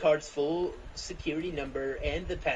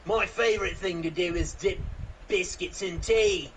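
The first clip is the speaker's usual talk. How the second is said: mock British accent; 5 dB louder than usual. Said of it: "I love being British".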